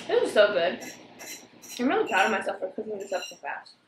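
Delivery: talking while chewing food; words round a bite of food; mouth full. Real, not acted. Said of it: "So I'm gonna eat this for you".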